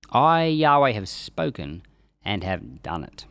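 measured, solemn reading of scripture. Acted. Teacher reading Ezekiel aloud to the class, solemn reading voice. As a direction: read the prophecy aloud with weight.

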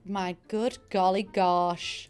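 slow, drawn-out American exclamation; American accent. Real, not acted. Reviewer amazed by the decking, slipping into an American accent. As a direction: slip into an American accent, word by word. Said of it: "I defaulted to an American accent there".

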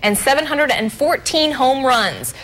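measured, evenly paced presenter read; news feature read. Real, not acted. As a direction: read it out like a TV history segment. Reads a history segment.

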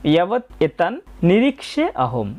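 "নিরীক্ষে আহম" as two distinct words; separated words. Shown as a demonstration. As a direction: set "ইয়াবৎ", "এতান", "নিরীক্ষে", "আহম" apart. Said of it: "আলাদাভাবে উপস্থাপন করেছি".

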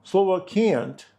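slow, high "can't" with the t dropped; American "can't", no t sound; can't without t. Shown as a demonstration. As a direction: drop the final t in "can't". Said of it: "вимовляється так, що ніколи ... не чуєш частку «т»".

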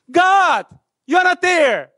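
very high, loud cry; screaming at God. Retold or imitated. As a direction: shout it up at the sky in despair. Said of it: "but I screamed".

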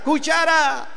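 drawn-out call after someone ahead; мок-крик. Acted. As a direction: stretch it out as a mild calling shout. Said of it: "Le vuelve a gritar".

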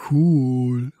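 loud, drawn-out cheer; excited call. A narrator's reading. Samson hearing of detective inventions, excited call. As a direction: call it out, impressed. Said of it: "rief Samson".

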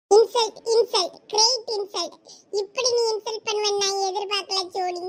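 mock-offended shout of insult; mock outrage. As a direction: ham up the hurt pride.

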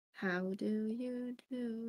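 slow drawn-out "How do you do?" with a long "do"; posh greeting. Shown as a demonstration. Greeting the chat again, slow mock-formal how do you do. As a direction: stretch it like a formal lady.

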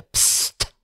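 barely breathed „psst“; whispered hiss. A narrator's reading. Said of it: "zischte er". (ganz tonlos gehauchtes „psst“)

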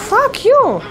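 loud, high furious yell; yelled curse. Real, not acted. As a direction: scream it at the attacker. Cursing enemy, then yelling it.

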